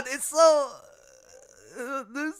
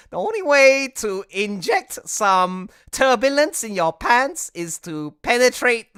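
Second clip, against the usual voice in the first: put-on slow, loud caricatured Asian accent; mock Asian accent; 5 semitones higher, 8 dB louder, slower than usual. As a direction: intone a mock proverb in a hammed-up Asian accent, higher and drawn out. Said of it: "your most racist Asian accent".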